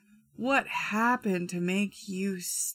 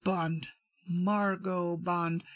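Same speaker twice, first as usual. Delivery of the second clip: James Bond introduction; 2 semitones lower, slower than usual. Retold or imitated. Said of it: "makes me think of Bond".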